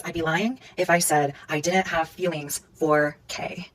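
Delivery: slow, softened retold admission; reluctant confession. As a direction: let the confession out slowly and softly.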